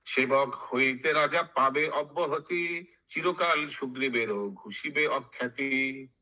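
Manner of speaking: measured chanted verse with drawn-out line endings; sing-song Bengali verse recital; verse recitation. Acted. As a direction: intone it like epic scripture.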